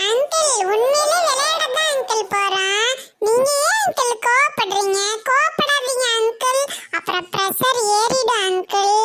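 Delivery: tearful pleading. Acted. Boy begs the angry uncle, tearfully pleading. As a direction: beg him not to be angry, near tears.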